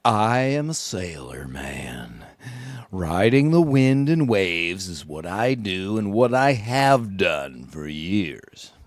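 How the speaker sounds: put-on slow, hushed, whispery old seaman's growl; a self-mocking, deliberately bad salty sailor voice; bad sailor-man impression. Shown as a demonstration. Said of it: "No, terrible, terrible".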